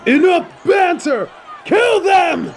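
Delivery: shouted order. Acted. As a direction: bark the order to attack. Boss orders attack.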